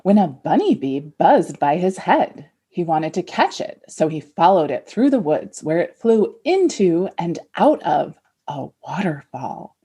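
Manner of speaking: a lightly theatrical fairy-tale read; dramatic story reading. Shown as a demonstration. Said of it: "a dramatic abridged reading".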